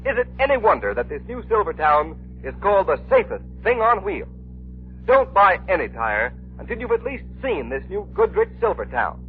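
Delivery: ordinary delivery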